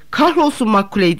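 a thunderous dismissive shout; thundering. A narrator's reading. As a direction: roar the name down. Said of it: "diye gürledi Sitnikov".

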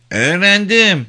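put-on very high child's voice; high-pitched little pupil reciting; little girl. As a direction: recite politely as a small child. Small child answers question.

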